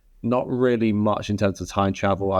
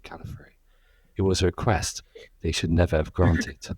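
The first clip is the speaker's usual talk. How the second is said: measured, earnest voiceover reading; serious dramatic monologue. Acted. Co-host takes on the film's opening voiceover, very seriously. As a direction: read it seriously, in short solemn phrases. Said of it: "probably gonna do it very seriously".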